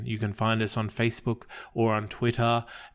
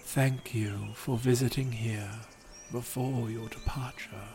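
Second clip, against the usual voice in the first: calm, even storyteller read of a gentle fable; story narration; 4 dB quieter, slower than usual. A narrator's reading. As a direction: tell it like a bedtime legend. Reads a fable aloud.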